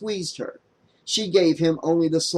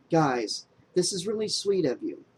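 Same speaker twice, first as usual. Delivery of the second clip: kind, soft; 3 semitones higher, 4 dB quieter than usual. Acted. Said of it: "She smiled kindly".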